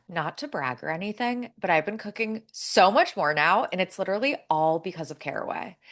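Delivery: smooth, scripted sponsor read; polished host-read promo. Acted. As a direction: read it like a podcast advert. Reads a sponsor ad.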